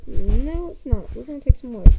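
loud and decisive; loud declaration. Real, not acted. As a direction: announce it boldly.

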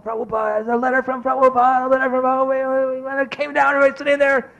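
high, hurried voice of a thrilled crowd; high-pitched retold commotion; excited clamour. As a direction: imitate everyone buzzing over news. Mimics excited rush to hear letter.

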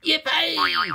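high squealing troll cheer; gleeful whoop. A narrator's reading. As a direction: whoop with mischievous delight. Troll rejoices in the mess.

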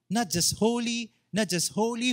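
not just holy, NOT pushed high; insistent preacher stressing not. Shown as a demonstration. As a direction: lean hard on not each time. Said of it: "if they want to emphasize something, they repeat it".

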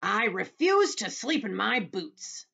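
loud, high, drawn-out refusal; crying out. A narrator's reading. Centipede refusing to sleep booted, loud cry. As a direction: protest loudly, stretching the words. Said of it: "the centipede cried".

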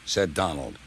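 high-pitched angry scolding. A narrator's reading. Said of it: "was angry".

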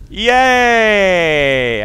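high, loud victory yelp; gleeful yell of success; cheer. Real, not acted. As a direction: whoop it out in triumph. Puzzle solved, cheering.

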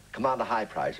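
lightly voiced Commander character. Shown as a demonstration. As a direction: put on the Commander's voice. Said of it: "a man who talked like that".

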